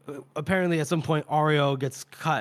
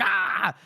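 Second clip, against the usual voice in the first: short, higher "ah" of pain; mock cry of pain; 4 semitones higher than usual. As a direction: imitate a startled yelp. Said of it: "Gaba's like".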